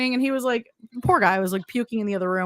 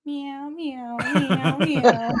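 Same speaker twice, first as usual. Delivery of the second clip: cat meows; much slower than usual. Pretend. Imitating a cat's meow.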